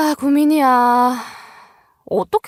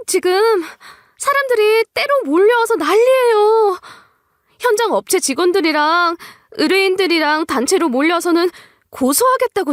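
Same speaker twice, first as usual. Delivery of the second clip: much higher, urgent and breathless with alarm; panicked employee; 8 semitones higher than usual. Acted. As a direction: blurt out trouble at the company in a fright. 직원이 난리를 전함. (겁에 질려 높고 다급한 목소리로)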